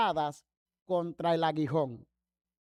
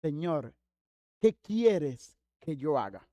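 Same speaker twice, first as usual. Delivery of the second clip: low, slow, subdued question; mildly timid; 5 semitones lower, slower than usual. Retold or imitated. Pablo humbly asks the Lord, mildly fearful and subdued. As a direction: ask it humbly, with a touch of fear. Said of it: "temblando y temeroso, dice".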